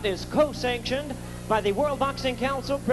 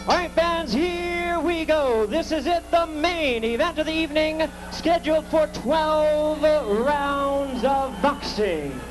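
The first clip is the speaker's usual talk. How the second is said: hype announcer; 3 dB louder than usual. Acted. Announcer hypes main event.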